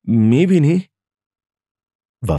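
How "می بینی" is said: high-pitched, mildly shaken question; trembling voice. A narrator's reading. Mother shows father the yard full of locusts, trembling voice. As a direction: ask with a touch of tremble, pitch raised. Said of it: "مادرم با صدایی لرزان گفت".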